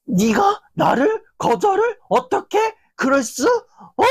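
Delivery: mock-enraged, pitch flying up on 거절을; furious outburst. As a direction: explode at the one who refused you. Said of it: "혼자서 막 씩씩거리고".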